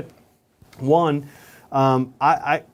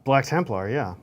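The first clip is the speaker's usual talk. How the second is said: talking around a brush in mouth; mouth full. Real, not acted. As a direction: say it with a brush between the teeth. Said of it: "I have a brush in my mouth".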